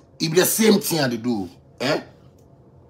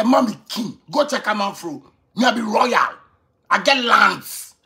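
proud self-quote; 6 semitones higher than usual. Retold or imitated. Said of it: "As I dey say".

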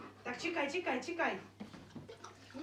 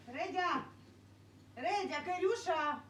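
calling out; 4 semitones higher, 4 dB quieter, slower than usual. Real, not acted. Calling the dogs by name.

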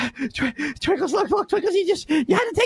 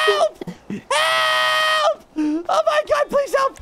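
shouting for help; 4 semitones higher, much slower than usual. Acted. Calling for help, friend stabbed.

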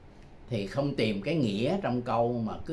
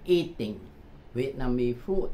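slow teaching read; slower than usual. Shown as a demonstration. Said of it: "đọc liền với nhau".

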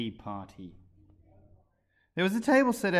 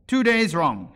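sighing; 6 semitones higher, 11 dB louder, slower than usual. A narrator's reading. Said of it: "sighed the Hatter".

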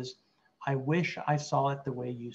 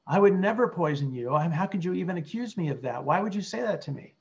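defensive reaction; 4 semitones higher, 4 dB louder than usual. Shown as a demonstration. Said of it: "That's reacting".

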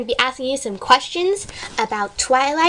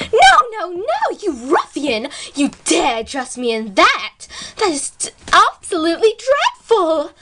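outraged Rarity; 4 semitones higher than usual. Acted. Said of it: "Now our thoughts from Rarity".

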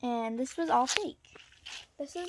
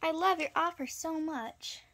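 pretend customer voice; 4 semitones higher than usual. Kid voicing fake trade customer.

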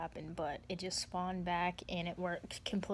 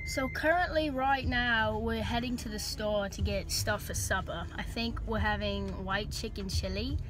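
amateur attempt at an Australian accent; 3 dB louder than usual. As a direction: put on a rough Aussie accent. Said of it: "talk in an Australian accent".

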